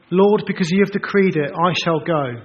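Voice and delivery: a hammed-up dutiful yes; confident servant reply. Preacher voicing an ideal Moses, proud and loud. Hypothetical bold obedient Moses.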